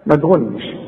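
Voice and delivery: ordinary delivery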